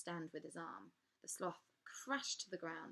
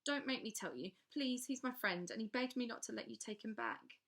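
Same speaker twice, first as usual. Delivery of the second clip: acted pleading; 4 semitones higher, 4 dB louder than usual. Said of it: "Maya was acting again".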